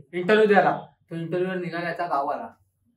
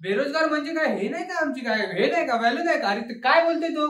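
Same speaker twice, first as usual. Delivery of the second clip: higher-pitched heated protest; indignant rant; 5 semitones higher than usual. Acted. Friend protests being called jobless, heated and higher. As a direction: play the offended friend. Friend ranting at the mock interview.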